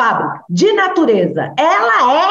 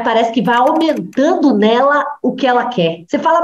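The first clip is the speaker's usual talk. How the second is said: ordinary delivery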